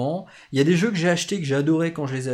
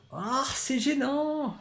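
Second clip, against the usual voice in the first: put-on German accent; 10 semitones higher, 4 dB quieter, much slower than usual. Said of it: "je fais l'accent allemand".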